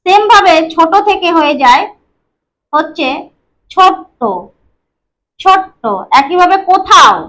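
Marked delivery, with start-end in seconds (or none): 3.7-4.2 ছোট্ট with a doubled ট; stressed double t. Shown as a demonstration. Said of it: "দুটো ত উচ্চারিত হয়েছে". 5.4-5.8 ছোট্ট with a doubled ট; stressed double t. Shown as a demonstration. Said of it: "দুটো ত উচ্চারিত হয়েছে".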